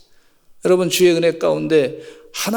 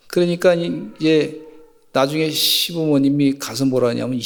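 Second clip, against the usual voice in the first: normal talking voice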